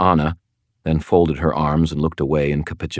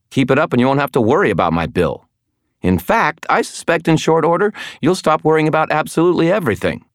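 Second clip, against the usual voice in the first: menacing; 12 semitones higher, 4 dB louder, faster than usual. Acted. Elaine threatening Priscilla.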